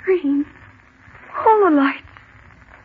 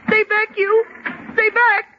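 higher voice, near tears; frightened pleading; 4 semitones higher than usual. Acted. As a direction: plead in terror as danger nears. Desks moving toward them.

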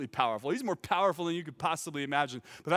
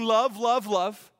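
mock shout; 4 semitones higher, 8 dB louder, much slower than usual. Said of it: "They're not shouting".

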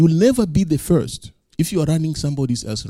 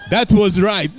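emphatic retold insistence; 4 semitones higher than usual.

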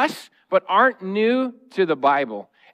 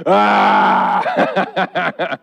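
tired and angry; 3 dB louder, much slower than usual. Retold or imitated. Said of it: "If I'm tired, I'm like".

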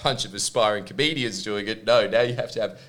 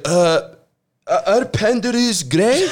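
dopey, drawn-out question pitched up; dim artist impression; 8 semitones higher, 6 dB louder, slower than usual. Mocking the artist, a dopey high question. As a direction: play the clueless designer asking. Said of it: "he was just like".

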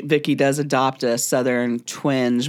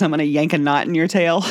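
put-on old saying. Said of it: "favorite sayings was".

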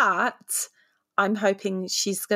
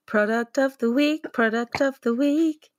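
sing-song show announcement; game show host; 5 semitones higher than usual. Pretend. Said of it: "That actually sounded like a game show".

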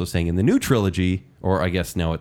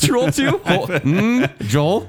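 surprised; 9 semitones higher, much slower than usual. Real, not acted. Hearing an unexpected sequel title.

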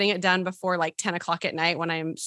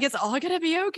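mock reassurance; 8 semitones higher than usual. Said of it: "You had to take your own advice".

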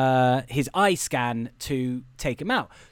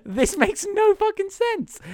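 loud, high, incredulous outrage; comic indignation climbing in pitch; exasperated rant; 7 semitones higher, 6 dB louder than usual. Real, not acted. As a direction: rail at the sheer stupidity of it. Ranting about absurd movie security.

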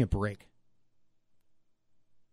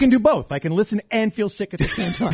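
excited; 6 semitones higher, 5 dB louder than usual. Real, not acted. Protesting jokingly.

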